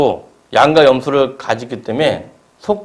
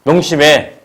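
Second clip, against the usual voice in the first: God's stern voice; 3 semitones lower than usual. Acted. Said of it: "하나님이 그런 목소리로 말하는 거예요".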